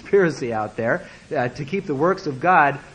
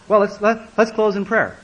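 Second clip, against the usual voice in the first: embarrassed; 5 semitones higher, 4 dB louder than usual. Retold or imitated. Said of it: "Embarrassed silence".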